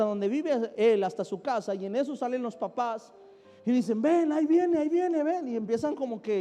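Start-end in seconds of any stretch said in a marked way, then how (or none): 4.0-5.5 calling out. Retold or imitated. Parents calling out alarmed.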